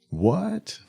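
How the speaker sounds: sudden high squeak of disbelief; one-word startled comeback; shocked what. Acted. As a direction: yelp it like the news just landed. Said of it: "That's usually the response".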